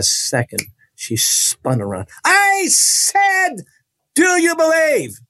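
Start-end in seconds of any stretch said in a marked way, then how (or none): 2.2-5.2 much higher, demanding repeat of the question; commanding preacher. Retold or imitated. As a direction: press him hard for an answer. Evangelist spins round, repeats question.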